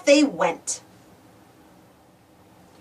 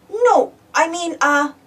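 stammering; 4 semitones higher, slower than usual. Acted. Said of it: "Marshall stammered".

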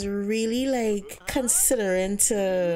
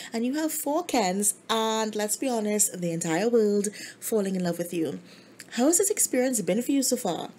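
gushing host; 2 semitones higher than usual. Acted. Host Gia continues.

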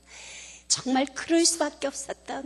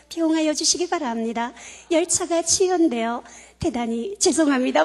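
formal announcer read, a little louder; station announcement impression; 4 dB louder than usual. Speaker imitating the station PA warning passengers, formal announcer tone. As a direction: mimic the platform safety warning. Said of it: "뭐 이렇게 방송을 하잖아요".

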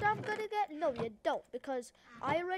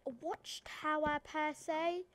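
put-on Aussie accent, drawn a little. Player shows off for the mic, mock Aussie accent. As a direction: try an Australian twang. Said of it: "it doesn't pick up the Australian, Aussie".

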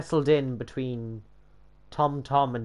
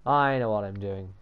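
mock triumphant; 5 semitones lower than usual. Boasting to self about the build, mock triumphant. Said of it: "he said triumphantly".

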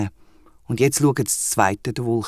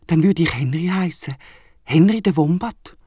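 higher, pleased wombat voice; delighted wombat; 4 semitones higher than usual. Acted. The wombat imagines being called Henry, higher and delighted. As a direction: savour the new name.

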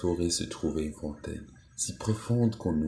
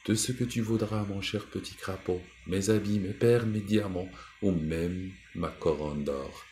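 higher, eager offer that slows at the end; eager princess; 3 semitones higher than usual. Acted. Princess offers her jewels to the toad, higher and eager. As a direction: promise everything in a rush of eagerness.

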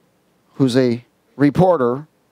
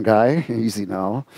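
low, soft, slow caution; calming wife; 4 semitones lower, 3 dB quieter, slower than usual. Retold or imitated. Wife calming her husband down, low and soft. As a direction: hush him gently like a wife. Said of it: "my wife going".

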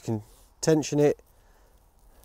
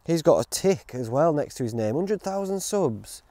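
impressed viewer musing; 3 semitones higher than usual. Retold or imitated. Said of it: "They're like".

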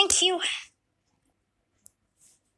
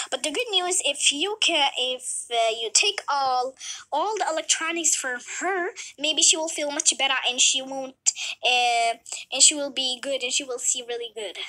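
lightly voiced doctor. Doctor continues.

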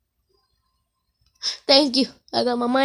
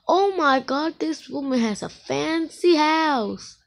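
higher, slow and awed; amazed; 3 semitones higher, slower than usual. Real, not acted. Admiring the woman's fancy house, awed. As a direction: marvel at it.

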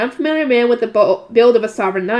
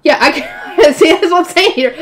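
chuckling, louder comment; laughing aside; 6 semitones higher, 6 dB louder than usual. Real, not acted. Reader laughs at the heroine's line, chuckling loudly.

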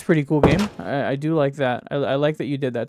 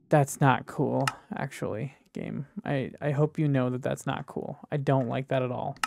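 quiet scolding; 2 semitones lower, 7 dB quieter than usual. Real, not acted. Scolding the game softly.

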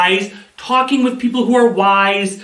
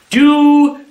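called-out command; 5 semitones higher, much slower than usual. Shown as a demonstration. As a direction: call the move out to the kids. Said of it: "All right, ready?".

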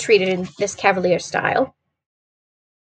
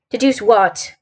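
mildly petulant question; a touch of impatience; slower than usual. Acted. Holmes answers Watson's interruption, mildly petulant.

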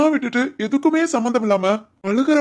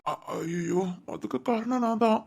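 hushed, softer thinking aloud; self-reproach under the breath; 8 dB quieter than usual. Acted. Husband to himself over his wife's trouble, hushed self-reproach. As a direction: blame yourself quietly, as an inner thought.

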